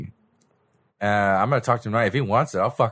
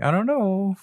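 mock reply; 11 semitones higher, slower than usual. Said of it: "they were like".

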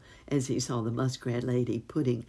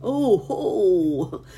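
much louder, higher triumphant chortle; gleeful gobble; 6 semitones higher, 9 dB louder than usual. Acted. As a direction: crow with glee as home comes in sight. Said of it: "gobbled the turkey".

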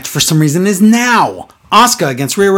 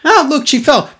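mocking replay voice; 9 semitones higher than usual. Acting out wrestler mocking a fall.

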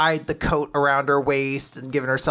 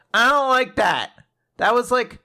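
put-on higher girlish quote; 8 semitones higher than usual. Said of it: "Gina's like".

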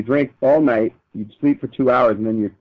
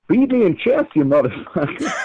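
higher, heavy Russian accent; 5 semitones higher than usual. Shown as a demonstration. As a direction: growl it like a Russian chess champ. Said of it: "Way better".

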